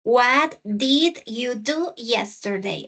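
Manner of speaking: slow model reading. Shown as a demonstration. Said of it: "teacher models the question slowly".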